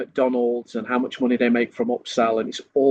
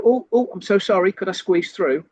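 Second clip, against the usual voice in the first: overly apologetic; 6 semitones higher than usual. Retold or imitated. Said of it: "you go".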